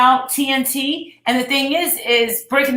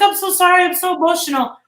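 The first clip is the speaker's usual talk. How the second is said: mock tearful apology; 7 semitones higher, faster than usual. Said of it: "was in tears".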